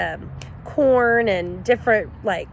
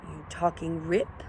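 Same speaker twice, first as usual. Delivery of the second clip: low, slow growly coyote; a low, slow coyote reply; deep coyote voice; 2 semitones lower, 6 dB quieter, much slower than usual. A narrator's reading. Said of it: "came the reply in a deep voice".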